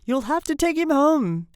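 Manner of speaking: high, loud firm order; insist, leaning on the last word; insistent. A narrator's reading. Nurse orders father home with baby, insistent. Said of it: "insisted the nurse".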